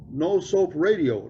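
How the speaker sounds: slow, drawn-out deadpan; slow punchline. Retold or imitated. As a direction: drag out 'No soap radio'. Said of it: "nice and slow".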